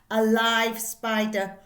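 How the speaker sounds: spring it on the listeners; sudden burst. Acted. Teacher startles the class in the blurb, loud and slow.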